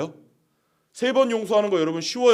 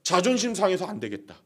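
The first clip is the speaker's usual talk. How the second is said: normal talking voice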